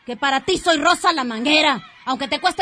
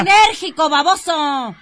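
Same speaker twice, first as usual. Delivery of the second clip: angry correction; 4 dB louder than usual. Acted. Rosa corrects him angrily.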